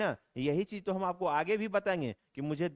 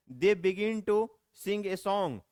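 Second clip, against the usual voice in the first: very slow and louder, word by word; slow loud dictation; 4 semitones higher, 4 dB louder, much slower than usual. Shown as a demonstration. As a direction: announce the example slowly to the class. Teacher reads model sentence. (बहुत धीमे और ज़ोर से, शब्द-शब्द)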